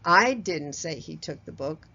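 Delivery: I punched, rest level; stress on I. Shown as a demonstration. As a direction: hit the word I hard. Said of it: "Let me do this for you".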